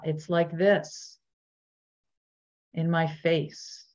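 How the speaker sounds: unhurried body-scan guidance with long pauses; measured meditation teacher voice; guided meditation. Real, not acted. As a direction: gently lead listeners inward, leaving space between phrases.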